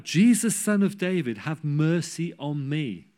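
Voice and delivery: loud cry for mercy, slowing on the plea; a blind beggar calling out over a crowd. Retold or imitated. Blind beggar calls to passing Jesus, loud cry. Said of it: "And he called out".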